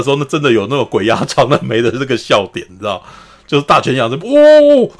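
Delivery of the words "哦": high, loud startled shout; startled cry. Retold or imitated. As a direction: jolt awake in alarm. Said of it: "就很惊慌". (大泉洋被托梦吓到，惊慌大叫)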